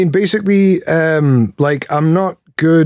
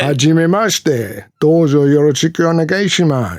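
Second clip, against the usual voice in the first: put-on Sean Connery accent; 3 semitones higher than usual. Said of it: "I can do Japanese with a Sean Connery accent".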